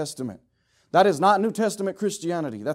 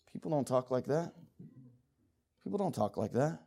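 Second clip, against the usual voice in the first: much softer, murmured disapproval; hushed aside; 4 semitones lower, 11 dB quieter than usual. Acted. Coworkers remarking on the believer's talk, hushed. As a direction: mutter it low, as if behind someone's back.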